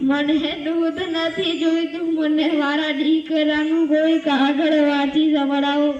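mildly wailing acted plea; tearful pleading. Old mother turns down milk, wants the letter read, tearful pleading. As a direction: plead in a light, sing-song lament. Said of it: "કેમ રડો છો?".

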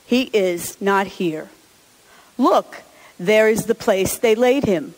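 measured, solemn scripture reading; gospel reading. Acted.

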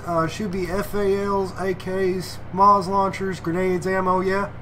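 put-on listing in a Texas accent; fake Texas accent. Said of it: "I'll do a fake Texas accent for this one".

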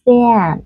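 SAND with a North American tense, nasal a; giọng Bắc Mỹ. Shown as a demonstration. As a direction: glide the a of SAND like "si-an". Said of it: "đặc biệt là vùng Bắc Mỹ". (SAND âm a căng kiểu Bắc Mỹ)

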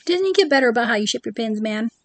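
fast, scolding rant at Disney; playful fast rant; mock rant. Real, not acted. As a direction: scold the company, quick and fed up. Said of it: "sorry, my rant".

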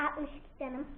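talking through a hot chip; mumbling with burning mouth; mouth full of hot food. Real, not acted. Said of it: "Sonra dilim yanıyor".

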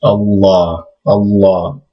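Allah with a long held l and open a; Arabic pronunciation. Shown as a demonstration. Teacher modelling the word Allah. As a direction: say Allah with a heavy doubled l. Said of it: "very unique pronunciation".

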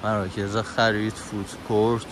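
soft, restrained narrator with long pauses; voice-over narration. Acted. Narrator listing the mall's history and facilities, soft and measured. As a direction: read the facts quietly, phrase by phrase. Reads facts about the mall.

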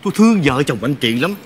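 low-pitched, tender reassurance; gentle. Retold or imitated. Caller telling the wife she cares about the couple, gently. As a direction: reassure her gently before the news. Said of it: "Tôi nói nhẹ nhàng lắm chị".

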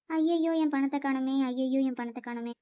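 hammed-up "alas" cry with little real sobbing; put-on wailing. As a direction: wail over a loss, only half in earnest. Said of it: "ஏன் அழுதுட்டு இருக்க?".

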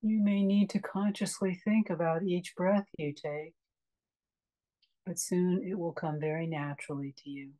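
calm meditation guide with long pauses; unhurried, spacious guiding into relaxation; guided meditation. Acted. Meditation teacher leading a class into a restful breath, calm guiding voice.

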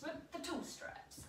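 slow, soft whispered repeat. Real, not acted. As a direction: whisper it slowly to yourself.

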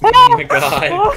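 high laughing. Real, not acted. Laughing hard.

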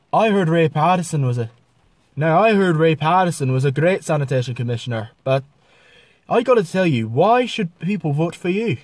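milder, conversational Irish accent; normal Irish accent. Shown as a demonstration. Vlogger challenging a commissioner for votes, normal Irish accent. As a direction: speak in an everyday Irish accent. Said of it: "a normal Irish".

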